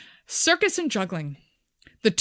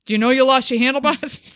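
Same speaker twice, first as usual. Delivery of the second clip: mocking bloke; 4 semitones higher, 7 dB louder, faster than usual.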